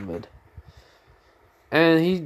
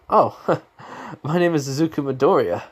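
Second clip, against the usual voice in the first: light, higher-pitched friendly introduction with a small laugh; smiling greeting; 6 semitones higher, faster than usual. Acted. Boy meeting new classmates, smiling greeting. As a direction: introduce yourself with an audible smile. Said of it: "He's just smiling".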